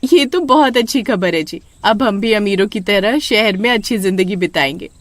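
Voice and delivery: lightly voiced happy village wife; wife Sushma. (खुश पत्नी की हल्की आवाज़)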